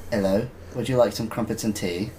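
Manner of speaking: put-on lightly done basic British accent. Offering crumpets and tea as an impression, mild British accent. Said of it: "like, the basic British accent".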